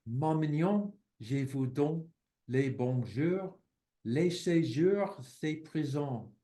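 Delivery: slow, careful reading of a French verse; poem recitation in French. Acted. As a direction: savour each short rhymed line. Reads French poem aloud.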